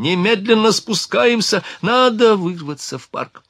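high, urgent cry to flee; alarmed, commanding call; shouted order. A narrator's reading. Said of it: "закричал Ликен".

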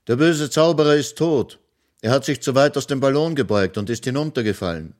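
put-on eager little boy proclaiming; young hero announcing. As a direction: tell the children the wizard is dead. Fritz announces to the children.

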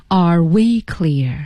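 very slow, weighty question; one word at a time. Shown as a demonstration. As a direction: draw out each word deliberately. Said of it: "一字一句地说".

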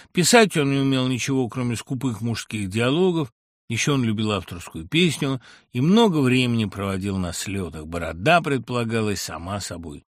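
usual speaking voice

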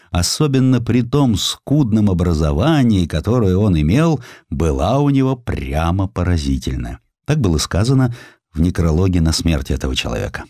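plain reading voice

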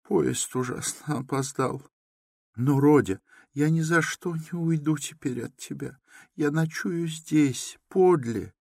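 high pleading mother, slowing at the end; cling to him, won't leave; high anxious mother. A narrator's reading. Mother insists to her son she will stay, high and pleading.

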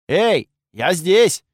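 calling out weakly. Acted. Calling back, faking weakness.

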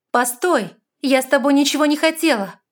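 high, loud cry of denial; urgent protest. A narrator's reading. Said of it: "честно заявила она".

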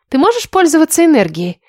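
high-pitched, eager concern; solicitous. A narrator's reading. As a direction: ask with put-on sympathy. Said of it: "продолжила участливо Лиля".

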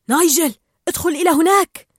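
commanding. A narrator's reading. Marlin orders Nigel inside, loud urgent command. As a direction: order him in sharply. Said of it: "فأمره مارلين".

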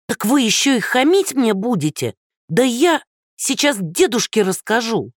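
put-on high, outraged old woman; threatening old woman. Old woman threatening Andrey, high and outraged. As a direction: threaten to tell grandpa, outraged.

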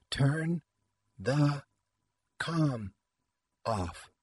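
spaced out, one word at a time; reedy, metallic, halting words. A narrator's reading. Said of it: "She paused between each word, her voice reedy and metallic".

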